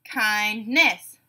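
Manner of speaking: "Kindness" split in two, kind-ness; syllable by syllable. Shown as a demonstration. Teacher giving a word to blend, said syllable by syllable. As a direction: pause inside "Kindness" between its syllables. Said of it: "say the syllables in a word".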